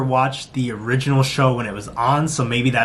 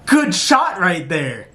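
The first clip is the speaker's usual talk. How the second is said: host's quip; 5 semitones higher, slower than usual. Retold or imitated. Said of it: "it was like".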